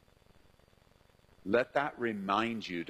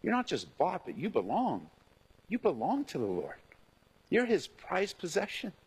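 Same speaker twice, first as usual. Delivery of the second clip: tender reassurance; 5 semitones higher than usual. Shown as a demonstration. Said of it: "change the tone of your voice".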